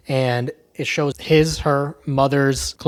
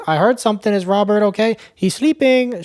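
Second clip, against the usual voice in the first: put-on anxious old woman; 7 semitones higher than usual. Old mother questioning through door.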